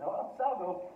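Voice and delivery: salgo said with a falling end; Spanish demo of salgo. Shown as a demonstration. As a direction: say salgo clearly. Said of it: "if I want to say".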